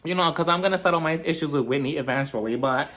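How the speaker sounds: high, sing-song mock Meredith; imitating Meredith. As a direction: squeak it up like a giddy mom announcing news. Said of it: "Meredith also announces to both of them".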